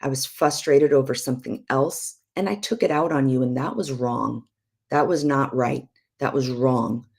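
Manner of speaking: calm, measured, owning the fault; sincere apology. Shown as a demonstration. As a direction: demonstrate a repentant, earnest apology. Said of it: "This is what that would look like".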